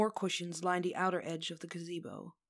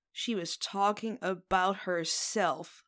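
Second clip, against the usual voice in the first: slow, wheezing through laughter; barely able to speak for laughing; 3 dB louder, slower than usual. Acted. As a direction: gasp it out between laughs. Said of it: "Raelle wheezes".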